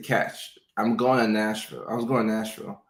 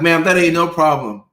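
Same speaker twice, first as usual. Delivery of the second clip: gleeful patient; 6 semitones higher, 9 dB louder than usual. Retold or imitated. Patient gleefully answers doctor.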